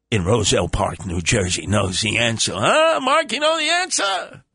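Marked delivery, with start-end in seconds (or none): 2.5-4.4 high eager prompt. Real, not acted. Calling out to a caller.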